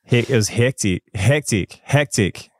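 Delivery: trying an Aussie "hectic"; Australian accent. Shown as a demonstration. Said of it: "Show me your Australian accent".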